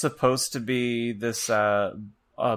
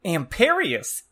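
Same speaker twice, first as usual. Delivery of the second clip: high-pitched villain casting a spell; hammed-up sorcerer's cry; Voldemort; 6 semitones higher, 3 dB louder, slower than usual. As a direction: shout the incantation theatrically. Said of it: "but then Voldemort shouted".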